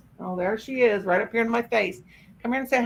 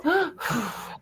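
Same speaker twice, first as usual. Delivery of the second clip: disgusted gasp; 6 semitones higher, 4 dB quieter than usual. Retold or imitated. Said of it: "she's so disgusted".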